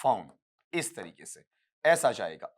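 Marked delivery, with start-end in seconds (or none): 0.0-0.3 फोन as a separate, low final piece; syllable-by-syllable reading. Shown as a demonstration. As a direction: say फोन on its own, softer and lower. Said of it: "और फिर यहां पढ़ेंगे".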